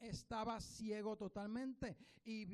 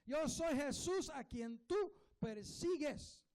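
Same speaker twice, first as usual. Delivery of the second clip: lightly voiced Jesus, each word laid down slowly; 3 semitones higher, 3 dB louder, slower than usual. Preacher voicing Jesus answering Saul, slow and weighty. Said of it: "Y el Señor le dijo".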